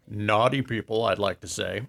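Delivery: put-on Santa with a light French accent. Santa tells the radio host of Paris in a light French accent. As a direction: play Père Noël with a hint of French. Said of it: "Was it your French accent?".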